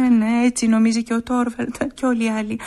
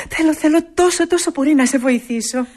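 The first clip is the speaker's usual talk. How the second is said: louder, higher, eager promise; 6 semitones higher, 7 dB louder than usual. Acted. Nora eagerly promises Christina she will help.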